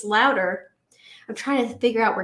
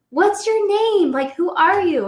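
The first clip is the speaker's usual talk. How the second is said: put-on nosy party girl; 8 semitones higher, 5 dB louder, slower than usual.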